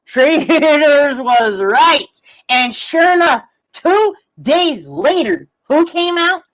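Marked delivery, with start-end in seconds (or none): 0.0-2.1 slow, drawn-out sheepish mock admission; mock apology. Imitating critics coming back to admit Traitors was right. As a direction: stretch it out like a grovelling critic. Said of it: "you're gonna be like".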